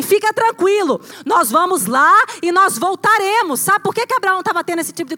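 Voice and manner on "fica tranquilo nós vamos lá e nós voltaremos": Abraham reassuring servants. Acted. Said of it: "E ele fala pros caras assim".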